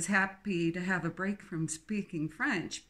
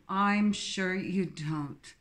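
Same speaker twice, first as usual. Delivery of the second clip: slow sarcastic; 3 dB louder, much slower than usual. Acted. Jane's dismissive jab.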